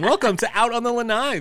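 high, loud, bright show opener; excited welcome. Real, not acted. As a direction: belt out the welcome. Podcast opening welcome.

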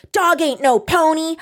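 put-on high, whiny bratty child demanding a pony; bratty kid. Mocking a spoiled boy who wants a pony, whiny and high. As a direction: whine it like a spoiled brat. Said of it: "just acting so fucking bratty".

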